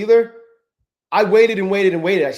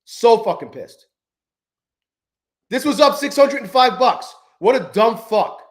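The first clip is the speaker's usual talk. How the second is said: slow, louder angry muttered curses; pissed off; 5 semitones higher, 4 dB louder than usual. Real, not acted. Trader on stream stewing over a lost six hundred, slow angry. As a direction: spit out the self-blame slowly.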